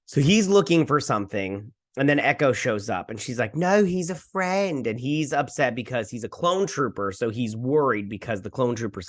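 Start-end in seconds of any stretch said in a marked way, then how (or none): 3.5-4.9 put-on high, slow girl's protest; imitated protest. Girl defending Gunji to Echo, imitated high, drawn-out protest. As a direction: voice an earnest defence of a friend.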